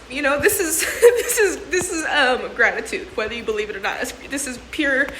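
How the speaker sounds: halting, laughing through tears; choked up. Real, not acted. Overcome with gratitude, talking to viewers, choked up. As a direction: fight back tears while you say it. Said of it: "I honestly had to collect myself".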